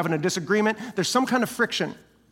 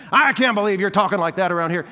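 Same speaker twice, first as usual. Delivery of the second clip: louder, indignant accusation; accusing; 6 dB louder than usual. Pretend. Pastor showing how not to confront grumblers, loud accusing tone. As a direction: scold them in disbelief. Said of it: "you don't make accusations".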